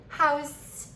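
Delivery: "How's" with a long final S; "How's" ending in a drawn-out hiss; emphasis on the S. Shown as a demonstration. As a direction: hold the last sound of "How's". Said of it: "do you hear that emphasis on the S".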